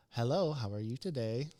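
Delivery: lilting phone-greeting sales voice; lightly put-on professional phone voice. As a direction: switch into a polite, sing-song customer service tone. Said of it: "It's a sales voice".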